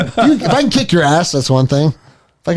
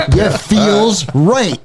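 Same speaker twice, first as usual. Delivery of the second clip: laughing; 6 semitones higher, much slower than usual. Real, not acted. Laughing while telling punching story.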